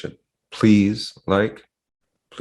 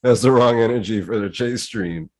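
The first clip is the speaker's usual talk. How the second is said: imitating his voice, hand gesture and all; impression of a friend; 5 semitones higher than usual. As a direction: do a quick impression of him. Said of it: "You did it just like him".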